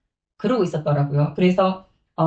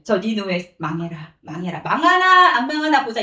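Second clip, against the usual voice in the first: spiteful Jonah. Retold or imitated. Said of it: "망하기를 원하는 마음으로".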